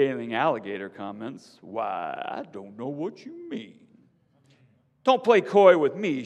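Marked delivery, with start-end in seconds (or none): 1.6-3.9 sly alligator feigning innocence; innocent alligator. A narrator's reading. 5.0-6.2 much louder, higher angry shout. A narrator's reading. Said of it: "she shouts".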